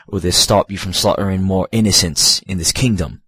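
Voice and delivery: put-on lightly melodramatic British accent; British-sounding stoic knight. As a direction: play a noble knight, mildly British and stoic. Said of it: "that's kinda how he sounds".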